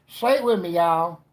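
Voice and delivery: high, loud call to the crowd; rallying call. Acted. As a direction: holler for everyone to join in. Rallies audience to chant along.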